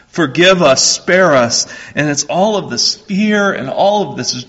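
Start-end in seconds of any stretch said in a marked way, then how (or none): 0.1-1.7 loud begging. Acted. Brothers begging Joseph for mercy.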